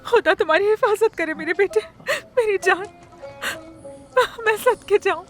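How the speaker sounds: tender words broken by sobs; crying mother's farewell; tearful blessing. Acted. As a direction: bless your child through tears. Mother blesses departing son.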